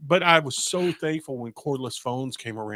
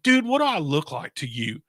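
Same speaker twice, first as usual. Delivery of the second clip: higher, exasperated rambling; lightly hammed-up teenage panic; flustered teen; 6 semitones higher than usual. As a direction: blurt it out like a lost sixteen-year-old. Teen self flustered at parts counter.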